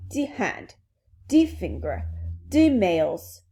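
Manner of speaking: put-on careful French-accented word list. Princess reciting properly to Alice, French accent. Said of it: "hear this in a French accent".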